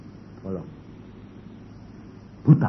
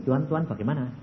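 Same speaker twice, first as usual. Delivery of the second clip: a hushed confused prayer; quiet prayer; 6 dB quieter, faster than usual. Retold or imitated. Praying man quietly asks God what to do, hushed. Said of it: "Aku sembahyang gini".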